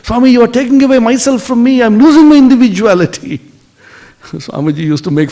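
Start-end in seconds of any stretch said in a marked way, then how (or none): 0.0-3.4 frightened. Acted. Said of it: "She became terribly frightened".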